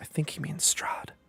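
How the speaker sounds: very quiet, hushed, barely voiced whisper. Game master voicing a character answering the players' question, Irina whispering. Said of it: "Irina whispers".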